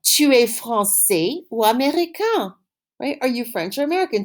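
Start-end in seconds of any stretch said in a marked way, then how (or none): 0.0-2.5 slow model question. Shown as a demonstration. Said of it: "You can ask somebody".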